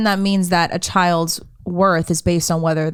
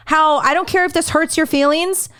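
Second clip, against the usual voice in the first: mock preachy quote; 5 semitones higher than usual. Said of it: "with a straight face".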